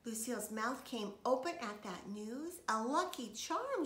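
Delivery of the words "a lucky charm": high, loud, slow amazed cry; loud amazed girl; shouted. A narrator's reading. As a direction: gasp it out, thrilled. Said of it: "she shouted".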